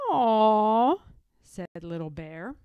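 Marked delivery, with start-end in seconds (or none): 0.1-1.0 hushed whisper so he won't wake. A narrator's reading. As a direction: breathe it out, grandpa's asleep. Grandfather asleep, hushing.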